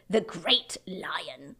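slow hushed whisper; awed whisper. Acted. Mister Beaver naming the great lion, awed whisper. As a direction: breathe it in awe.

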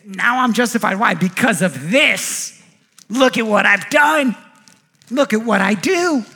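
boastful self-justifying. Acted. Preacher playing a self-justified believer, boastful. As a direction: show off with stretched, punched words.

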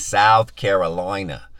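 slow, loud Southern accent; South Carolina accent. Shown as a demonstration. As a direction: stretch it out in a playful Carolina accent. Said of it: "I just feel like I need to do the accent".

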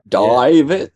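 put-on playful copy of an Australian accent; mock-Aussie "David"; mimicked Australian accent. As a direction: echo the Aussie vowel in David.

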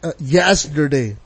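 slow, stretched "yesterday" with a flat "yas"; drawn-out yesterday. Shown as a demonstration. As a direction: drag out "yesterday" as "yasderday". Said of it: "Y A S S D E R D A".

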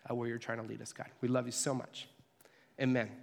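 earnest opening prayer, softening toward the end; heartfelt pastor's prayer. Acted.

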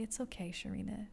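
soothing tone to her own name; gentle self-talk. Retold or imitated. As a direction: comfort yourself gently. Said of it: "I just started to say".

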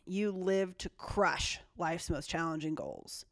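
slow, hushed whisper; dramatic whisper. Pretend. Reading a horoscope aloud to her co-host, slow dramatic whisper. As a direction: whisper it slowly like a spooky secret.

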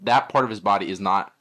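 robot voice. Retold or imitated. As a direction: do a lightly robotic text-to-speech voice. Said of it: "and he's like".

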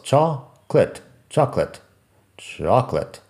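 "chocolate" broken into CHOK, lit, then joined; "chocolate" as CHOK-lit, no middle vowel; two-syllable chocolate. Shown as a demonstration. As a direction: demonstrate "chocolate" in just two beats. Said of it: "solo dos".

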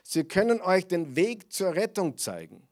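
possessed slave woman crying out after Paulus, mock loud; retold shout. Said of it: "und schrie".

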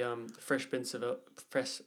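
words tangled by a mouth guard. Real, not acted. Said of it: "Take your mouth guard out".

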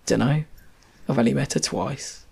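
light Birmingham accent imitation; a passing hint of a Birmingham accent. Partner shrugging off the kids, in a light Birmingham accent. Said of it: "why I did that accent".

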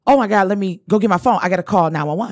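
quick, mildly frantic reenactment; retold urgency. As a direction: rush it out as if needing help now. Reenacts frantic first reaction to emergency.

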